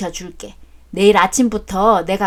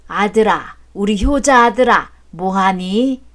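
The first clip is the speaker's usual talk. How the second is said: sweet-talking father. Acted. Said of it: "왜 그러세요, 갑자기? 적응 안 되게".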